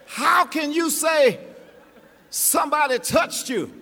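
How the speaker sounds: mock-exasperated Peter, loud. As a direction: protest like a flustered Peter. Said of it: "cried out".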